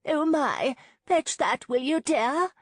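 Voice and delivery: high, loud call across the lawn; older lady calling to a young woman across a garden, high and loud. Acted. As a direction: sing out to the girl by the arbor. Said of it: "Missus Clark called to her".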